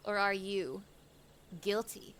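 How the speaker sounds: mock detective suspicion. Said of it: "mock detective interrogation".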